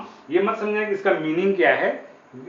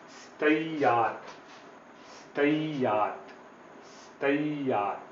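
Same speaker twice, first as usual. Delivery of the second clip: स्तैयात slowly, softly, with a soft ya; teacher modelling स्तैयात, slow and soft; slow model reading; 8 dB quieter, much slower than usual. Shown as a demonstration. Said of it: "इसमें softness है".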